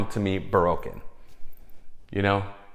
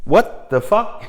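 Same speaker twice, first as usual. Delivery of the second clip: high, slow astonished cry; astonished shout; 11 semitones higher, 5 dB louder, slower than usual. Real, not acted. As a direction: let the disbelief burst out high. Astonished at history spot.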